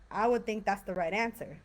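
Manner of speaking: flat, dismissive and sarcastic; rude tone. Shown as a demonstration. Teacher showing the rude version to a student, flat and sarcastic. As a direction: say it like it's obvious, a bit snide. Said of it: "That's kind of like / That's rude".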